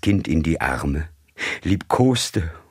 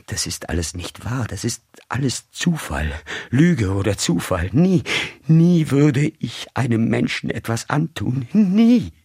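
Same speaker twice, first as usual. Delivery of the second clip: von leisem Flehen zum hohen, lauten Schrei steigernd; entsetzt, immer höher und lauter bis zum Schrei; verzweifelter Aufschrei; 7 semitones higher than usual. A narrator's reading. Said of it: "schluchzte vor Entsetzen auf". (verzweifelt aufschreiend, von leise bis laut und hoch)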